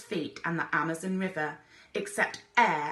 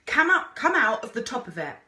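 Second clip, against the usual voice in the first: high, loud call; shouted order to climb; shouted command; 5 semitones higher, 6 dB louder than usual. A narrator's reading. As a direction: yell it over the wind. Explorer shouting instructions.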